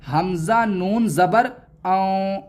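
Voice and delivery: हमजा नून ज़बर आऊँ with the noon hidden in the nose; nasalized aan. Shown as a demonstration. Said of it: "इस तरह पढ़ना है".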